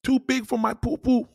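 high, loud squealing protest; comic impression of a woman refusing; mock Latin woman. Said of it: "Latin women gonna be like".

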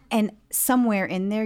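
ordinary delivery

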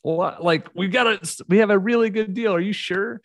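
put-on can't believe the kids want to leave; surprised dad. Father reacting to kids wanting to move back, incredulous. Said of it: "I'm like".

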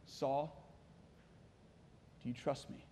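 low, hushed question; quiet, intimate near-whisper; God whispering. Acted. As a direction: speak very softly, as God to a desperate man. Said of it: "you can hear God whispering to him".

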